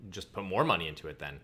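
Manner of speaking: dry sarcastic suggestion. Real, not acted. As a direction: say it deadpan, tongue in cheek. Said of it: "I say that sarcastically".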